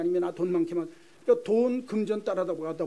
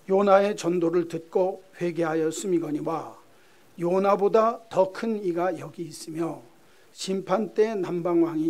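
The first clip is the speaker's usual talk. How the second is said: slow, measured phrases with pauses; scripture reading. Acted. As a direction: read the verses out solemnly. Reads scripture aloud to congregation.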